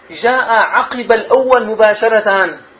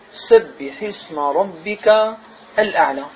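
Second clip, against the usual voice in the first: very slow, drawn-out Quran recitation; الأعلى drawn out and falling at the end; 2 semitones lower, slower than usual. Shown as a demonstration. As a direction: stretch each word of the verse slowly. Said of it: "ابدأ لنا زميلنا بالآية الأولى".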